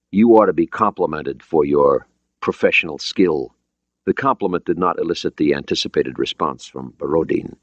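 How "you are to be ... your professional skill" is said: put-on formal Russian-accented English; careful, lightly Russian-accented phrasing; foreign accent. Borodin complimenting the American commander, Russian accent. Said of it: "He had an accent, but his English was understandable".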